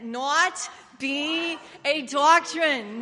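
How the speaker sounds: slow, drawn-out Jewish accent on "Not be a doctrine"; a light mock Jewish accent, stretched out. Shown as a demonstration. Preacher demoing a Jewish accent to the congregation, slow and drawn out. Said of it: "Say it with a Jewish accent".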